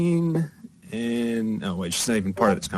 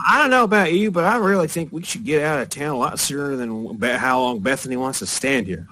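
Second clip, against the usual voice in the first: put-on higher-pitched, chatty girl's voice; tiefling girl; 3 semitones higher than usual. Tiefling girl wanting to get out of town, higher and restless. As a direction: play an uneasy tiefling girl, voice lifted. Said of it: "between the tiefling girl".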